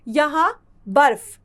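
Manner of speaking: बर्फ said slowly, र sound before फ; teacher spells out बर्फ slowly for children; slow model word. Shown as a demonstration. Teacher models बर्फ slowly and clearly for the class. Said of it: "यहाँ ब के बाद रेफ की मात्रा का उच्चारण किया जाएगा".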